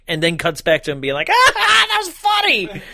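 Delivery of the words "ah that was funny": high mocking falsetto; high put-on voice; mock character voice. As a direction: squeak it out as a smug character.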